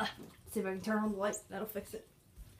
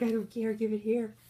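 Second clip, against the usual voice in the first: cat voice; 5 semitones higher, 4 dB louder than usual. Retold or imitated. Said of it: "He's like".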